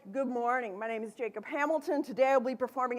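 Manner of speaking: steady, firm introduction; calm, assured self-introduction. Shown as a demonstration. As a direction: announce yourself firmly to the judges. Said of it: "firm voice".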